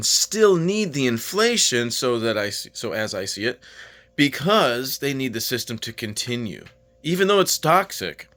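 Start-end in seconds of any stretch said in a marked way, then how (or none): 4.2-8.3 talking while chewing pretzels; mouth full. Real, not acted. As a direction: speak through a mouthful of food. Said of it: "Sorry, I was just eating pretzels".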